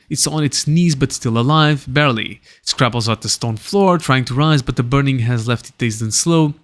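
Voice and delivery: animated scene-setting read; game master narration. A narrator's reading. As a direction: narrate the fight blow by blow.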